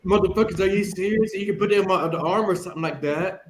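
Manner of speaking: loud, heated cursing rant; fed-up yelling at the nurses; angry outburst. Retold or imitated. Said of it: "And I'm like".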